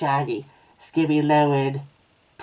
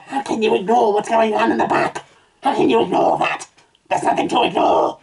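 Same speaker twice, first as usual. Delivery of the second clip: loud, raised-pitch protest; exasperated protest; 7 semitones higher, 5 dB louder than usual. Acted. Reader objects to the story's logic, loudly exasperated. Exasperated shouting about being ignored.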